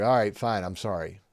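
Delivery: a quick, grudging "All right, fine, I'm sorry."; perfunctory apology. Shown as a demonstration. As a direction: toss off the apology without meaning it. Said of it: "Most people get the perfunctory".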